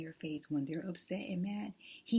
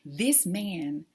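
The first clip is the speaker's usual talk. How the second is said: holding back tears; 3 semitones higher, 4 dB louder, slower than usual. Real, not acted. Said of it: "I'm not gonna cry".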